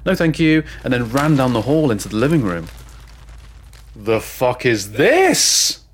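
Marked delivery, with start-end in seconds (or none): 0.1-0.6 creature hiss. Retold or imitated. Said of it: "it hissed at me, or maybe it said". 4.0-5.8 retold shout. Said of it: "I heard my stepdad shout".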